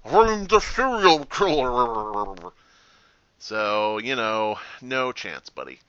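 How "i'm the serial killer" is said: slow, loud, creepy stage whisper; exaggerated mock whisper. Player re-enacting telling the witch, mock creepy whisper. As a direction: draw it out like a hammed-up creepy secret. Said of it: "I was whispering. I was like".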